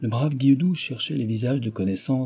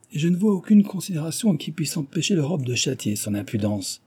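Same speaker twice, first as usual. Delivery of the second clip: high-pitched indignant protest; vehement indignation; 7 semitones higher than usual. A narrator's reading. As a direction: demand punishment with vehemence. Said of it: "clama monsieur de Glandève avec véhémence". (avec véhémence, indigné)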